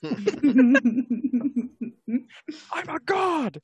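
high loud triumphant boast; grandiose proclamation. Pretend. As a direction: declare it like a deity.

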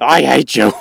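loud mock outburst; hammed-up I hate you; playful yell.

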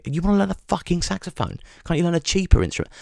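high, fast, soft mock-indignant dad; mimicking dad. Imitating his dad balking at the saxophone price, high and fast. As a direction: squeak out the stingy dad's outrage. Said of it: "my dad's fucking face".

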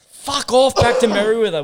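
a hint of an angry local surfer; mock local yelling. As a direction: bark it like a territorial local, half in jest. Voicing locals telling him off.

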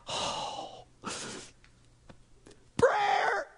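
sighed, high, choked word; emotional sigh. Shown as a demonstration. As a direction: let it come out as a heartfelt sigh. Giving offering as prayer.

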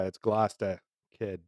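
Gloucester as "Glostah", R dropped in Boston style; Boston accent. Shown as a demonstration. Correcting co-host's phonetic take, in a Boston accent.

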